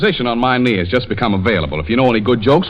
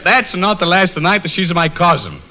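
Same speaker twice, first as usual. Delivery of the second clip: higher, comic Italian punchline; mock Italian accent; 6 semitones higher than usual. Pasquale replying to Tony, mock Italian accent. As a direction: answer as Pasquale in stage Italian. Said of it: "And the Pasquale said".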